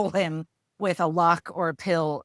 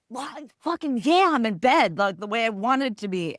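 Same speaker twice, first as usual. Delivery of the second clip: high, loud, thrilled squeal of delight; gleeful bedtime joy; 6 semitones higher, 4 dB louder than usual. Retold or imitated. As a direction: crow about finally being in bed. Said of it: "I'm like".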